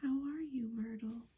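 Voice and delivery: a lightly put-on cheery greeting; falsely bright. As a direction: fake friendliness, mildly done. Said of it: "in a falsely bright voice".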